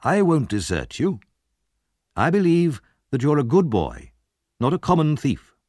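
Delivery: kind gentleman, lifted pitch; kindly. A narrator's reading. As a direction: reassure a worried child kindly. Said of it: "said Mister Brownlow kindly".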